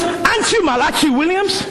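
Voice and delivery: a grandfather asking his grandson why he won't answer, puzzled; puzzled question. Retold or imitated. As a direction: ask the boy, half-laughing in disbelief. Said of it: "Then he goes".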